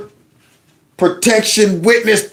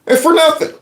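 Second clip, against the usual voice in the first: mock crying; 9 semitones higher than usual. Mock lament over wasted effort.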